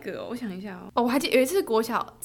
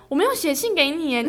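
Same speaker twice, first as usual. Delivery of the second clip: feigned calm; 4 semitones higher, 5 dB louder than usual. Retold or imitated. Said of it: "我还要装得很镇定".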